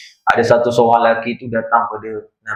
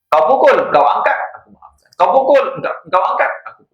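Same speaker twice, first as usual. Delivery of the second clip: mildly excited quote; 8 semitones higher than usual. Acted. Ibrahim Adham forgives the soldier.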